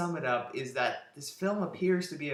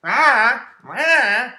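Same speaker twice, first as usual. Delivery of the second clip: mock dopey voice, faster, ending in a much louder strained ah; Nick Swardson impression; 3 semitones higher, 11 dB louder than usual. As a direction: imitate the actor's unfunny voice, then blurt the ah. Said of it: "It's Nick Swardson going like this".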